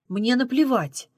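slow, angry Мне наплевать; angry retort. A narrator's reading. Runaway girl tells driver she doesn't care, angrily. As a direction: spit it out in slow anger. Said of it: "зло сказала она".

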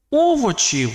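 високо підняте «овочів»; вимов «овочів» тонким голосом після паузи; виділене слово. A narrator's reading. Страшне слово наприкінці думки. (високе відсторонене «овочів»)

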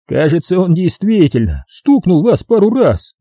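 high, sarcastic policeman; mock him while sending him off; mocking cop Jerry. A narrator's reading. (полицейский насмешливо отвечает рассказчику)

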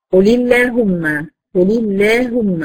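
قل اللهم recited slowly with a deliberate lam; slow recitation demo. Shown as a demonstration. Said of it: "شايفين اترققت إزاي؟".

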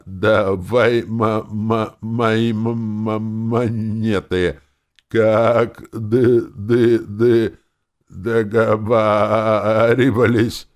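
very slow, repeated stuck syllables; stuttering. Acted. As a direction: fight through every stutter. Stuttering elf after shock. (заикаясь, очень медленно)

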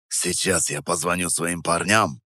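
low quiet muttered threat; through teeth. A narrator's reading. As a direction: squeeze words through teeth. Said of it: "процедил он". (процедил сквозь зубы)

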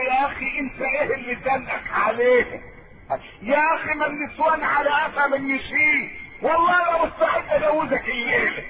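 a bad friend egging on the unhappy husband, mocking; mocking tempter. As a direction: tease him into taking a new wife.

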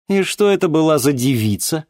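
high, loud astonished question. Acted. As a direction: ask in disbelief. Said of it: "изумилась Ди".

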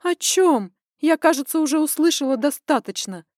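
high, loud snap back; flaring up. A narrator's reading. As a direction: flare up at him. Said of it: "вскинулась я".

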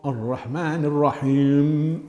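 "الرحمن الرحيم" slowly, thick r and thin "maan"; heavy ra, light mim. Shown as a demonstration. Teacher modelling the verse, careful letter weights. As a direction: stretch "الرحيم" to a held m. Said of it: "بتضخيم الراء".

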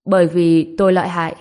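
mildly scowling brag of his own power; grumpy reply. Acted. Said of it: "Anh ta cau có trả lời".

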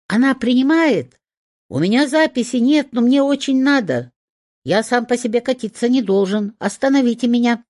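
high, loud, frantic chatter; loud pleading hedgehog. A narrator's reading. The rolling hedgehog begs the vet, high and loud. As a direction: beg to be stopped, up high and loud. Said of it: "самым громким".

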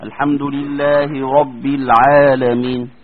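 slow recited "الحمد لله رب العالمين" with a heavy ra in "رب"; slow tajweed demo; Quran recitation. Shown as a demonstration. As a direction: recite slowly, stressing the ra of "رب". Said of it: "فلما أجي أفخم الراء أقول إيه؟".

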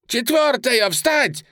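very high, loud screeching order; shrill shriek. A narrator's reading. Panicked commander shrieking at the fourth squadron to rise. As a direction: scream it in a voice not his own. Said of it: "таким визгливым, не своим голосом".

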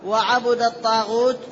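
وعبد said wa-'abuda, u after b; short u on the ba of وعبد; Hamza's reading. Shown as a demonstration. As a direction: recite وعبد الطاغوت as wa-'abudat-taghut. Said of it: "وحجة حمزة في قراءته".

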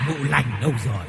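leicht verstellte Männerstimme, rufend; calling man. A narrator's reading. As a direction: ruf wie ein Mann vor der Tür. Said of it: "Có tiếng gọi bên ngoài của một người đàn ông vang lên".

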